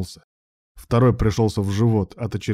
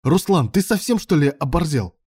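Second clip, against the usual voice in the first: angry rebuke; 7 semitones higher, 3 dB louder than usual. A narrator's reading. Scolding during a fight.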